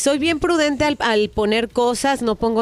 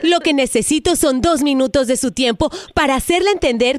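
telemarketer voice. Acted. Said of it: "es una broma telefónica".

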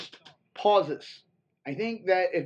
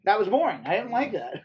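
mock bored complaint; 4 semitones higher, 3 dB louder than usual. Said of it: "let's just be quiet for a second".

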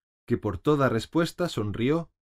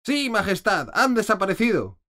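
loud, higher, firm answer; stout reply; 11 semitones higher, 5 dB louder than usual. A narrator's reading. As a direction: answer like sturdy soldiers. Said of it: "dijeron los soldados reciamente". (respuesta recia de soldados, alta)

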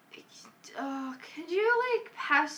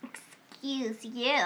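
put-on valley girl voice; 2 semitones lower, 6 dB quieter, much slower than usual. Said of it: "love doing a Valley Girl voice".

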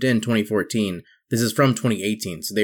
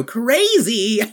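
mock freakout; 12 semitones higher, 3 dB louder than usual. Mock reaction to tilted frame.

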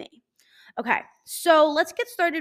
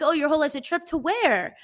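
quoting cousin; 5 semitones higher than usual. Retold or imitated. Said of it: "then she responded".

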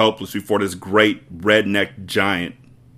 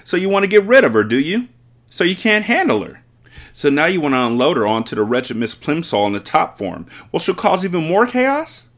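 higher, loud, fast accusation; accusing headmistress; 8 semitones higher, 3 dB louder than usual. Acted. Headmistress accusing Miss Honey, fast high and loud. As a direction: tear into her motives.

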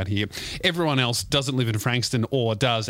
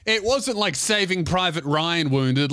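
ordinary talk

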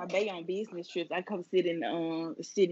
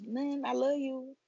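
higher, slow, mock-sweet cover-up; innocent sweet reply; 4 semitones higher than usual. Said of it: "And then he be like".

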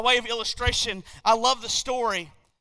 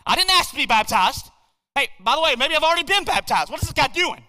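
louder, agitated protest under the water; young man confused and alarmed at the preacher's dunking; rising panic; 4 semitones higher, 5 dB louder than usual. Retold or imitated. Young man underwater wonders why preacher dunks him, agitated. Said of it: "he's thinking to himself".

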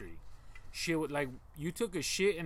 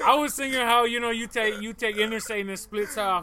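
animated protest; 5 semitones higher, 8 dB louder than usual. Real, not acted. Defending himself, raised voice.

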